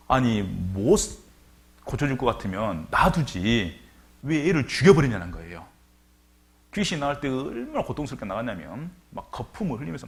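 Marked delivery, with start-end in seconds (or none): 0.1-5.3 louder, rising protest; indignant father. Retold or imitated. Father protesting to Jesus over his son, indignant. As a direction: voice the father's sudden anger. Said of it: "갑자기 분이 일어나는 거예요".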